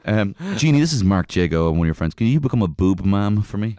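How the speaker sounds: loud, high mock summons; summoning the genie. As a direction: call out to a genie. Calling to genie into cup.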